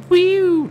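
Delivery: sudden high loud whoop; high whistle whoop. Acted. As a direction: squeal it out high. Siren-like exclamation.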